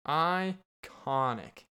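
Iconic stretched very slowly with a falling end; slow, relishing Iconic; drawn-out iconic. Shown as a demonstration. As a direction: savor Iconic, drawing each syllable out slowly.

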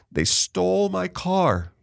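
high, slow, upset daughter's voice; retold tearful plea. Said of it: "calls me up in tears".

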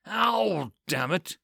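a mild pained ow; understated wince; wincing in pain. Acted. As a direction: read it as a sudden sting. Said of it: "he winced".

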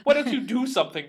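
high, loud, fast plea; hammed-up cabbie crying for help; mock begging. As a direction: rush it out in mock desperation. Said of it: "begging for him to stop".

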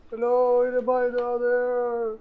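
high, muffled call from below; a voice echoing up a well. Acted. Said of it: "you hear this muffled voice".

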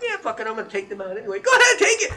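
a hammed-up shouted Hitler giving permission; mock Hitler shout. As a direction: bark it out like a mocking dictator. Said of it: "Hitler's like".

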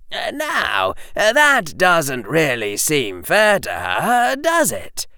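high, slow and mild schoolboy. Acted. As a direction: gently raise a doubt, slowly. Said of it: "said Harry in a mild voice".

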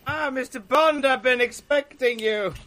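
Bond villain impression, slow and high; slow theatrical villain menace. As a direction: purr it out like a movie villain. Quoting the classic Bond villain line.

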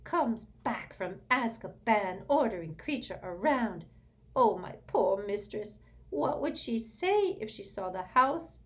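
high, loud, slow spiteful elf grumble; resentful house-elf muttering. A narrator's reading. House-elf grumbles about Sirius leaving the room, spiteful. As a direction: shuffle out muttering poison. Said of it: "he muttered all the way out".

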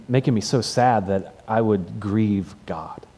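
slow, breathless tearful whisper. Retold or imitated. Camper confessing to his counselor through tears, whispered and slow. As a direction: let it crumble into a whisper. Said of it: "he's just crying".

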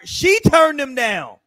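"she" hit loud, then slow; emphatic stress. Real, not acted. Host pressing his point to co-hosts, emphatic stress on "she". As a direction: punch "she" loudly and draw out the phrase.

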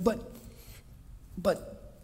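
stammer, then cry out what are you gonna give me; pleading Abram. Acted. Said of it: "I wish I could have heard the inflection in Abram's voice".

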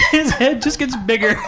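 talking through laughter; chuckling words; laughing. Real, not acted.

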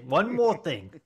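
Columbo impression. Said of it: "He's Columbo".

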